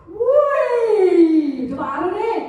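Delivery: eager, lively compliment; enthusiastic praise. Shown as a demonstration. Praising a colleague's new item, eager. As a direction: sound thrilled about the new thing. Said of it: "harus antusias".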